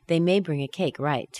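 "right" dropping down flat; falling tag. Shown as a demonstration. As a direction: let "right" fall. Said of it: "We wouldn't say".

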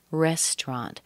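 "restaurant" said as REST-rant; two-syllable restaurant. Shown as a demonstration. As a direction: swallow the "au" in "restaurant". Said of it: "It sounds like R E S T R A N T".

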